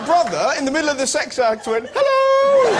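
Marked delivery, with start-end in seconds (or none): 1.9-2.7 a very high, loud shouted hello; high startled shout. Retold or imitated. The brother interrupted in bed with a girl, shouting a very high, loud, startled hello. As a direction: yelp it out as if caught in the act.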